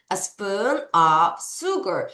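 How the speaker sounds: "a spoon of sugar" drawn out; slow teacher repeat. Shown as a demonstration. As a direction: repeat slowly for learners. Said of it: "다시".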